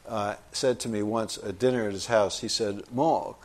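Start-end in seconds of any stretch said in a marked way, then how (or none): 2.9-3.4 "Mark" as a drawn-out "Mawk"; imitated drawling accent. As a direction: mimic his accent, R dropped. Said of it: "he spoke like this".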